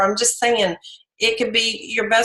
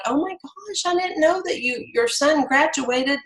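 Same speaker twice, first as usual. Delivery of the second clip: gushing surprise; 6 semitones higher than usual. Retold or imitated. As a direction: act like you just found out the big news. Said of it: "and I'm like".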